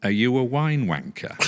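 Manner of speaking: high, loud Yorkshire woman; Yorkshire accent. Retold or imitated. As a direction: imitate a Yorkshire lady's blunt question. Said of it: "change your accent when she was speaking".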